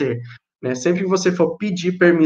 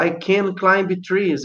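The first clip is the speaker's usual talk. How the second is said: slow example sentence; 3 semitones higher, much slower than usual. Shown as a demonstration. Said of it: "Por exemplo".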